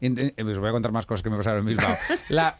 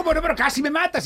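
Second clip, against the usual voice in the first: very high mock-indignant lady voice; arguing lady. Lady keeps accusing the driver, high mock indignation. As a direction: whine it back as the aggrieved lady. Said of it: "Y ahí discutiendo".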